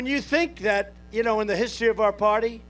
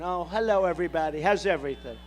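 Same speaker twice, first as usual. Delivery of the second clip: softer, lower, sugary mock politeness; mock nice tone; 5 semitones lower, 3 dB quieter, faster than usual. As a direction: put on a fake nice-guy greeting, much softer. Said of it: "I'm supposed to have a nice tone".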